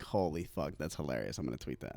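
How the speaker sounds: quiet muttering. Retold or imitated. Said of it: "I'm like".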